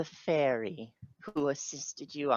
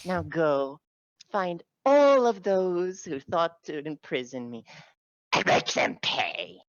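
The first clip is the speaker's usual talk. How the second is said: regal command; 6 semitones higher, 5 dB louder than usual. Acted. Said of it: "Titania's like".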